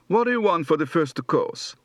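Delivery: English with a light Tuscan Italian accent; Florentine Italian accent. Shown as a demonstration. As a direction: ask it like a Florentine waiter. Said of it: "Translation done in Italian accents".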